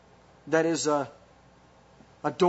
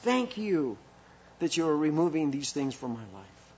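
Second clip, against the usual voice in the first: joyful thanks to the Lord. Pretend. Believer joyfully thanking the Lord for removing things, rejoicing.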